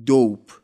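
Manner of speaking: دوپ with a slightly longer, stretched o; دوپ said a bit longer; drawn-out vowel. Shown as a demonstration.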